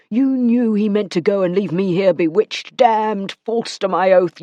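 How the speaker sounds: a man's voice turning hard and accusing; cold, accusing demand; Matthew, accusing. Acted. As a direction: press her for the truth.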